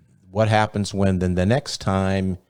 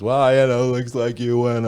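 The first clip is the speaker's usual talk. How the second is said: a hint of a burned, cackling killer taunting her; gloating villain; 6 semitones higher than usual. Killer taunting the detective from the ground, lightly gloating. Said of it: "and he's still cackling, and he goes".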